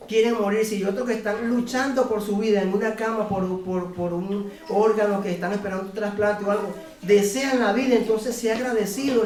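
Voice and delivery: fervent plea to a crying roommate; earnest exhortation. Retold or imitated. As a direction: press him hard to be grateful. Exhorting weeping roommate to gratitude.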